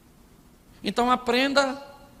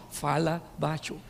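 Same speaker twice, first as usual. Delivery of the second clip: low, soft, slower mock-husband voice; husband hushing wife; 5 semitones lower, 6 dB quieter than usual. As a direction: imitate a husband quietly telling his wife to keep it down. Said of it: "seu marido fala com você assim".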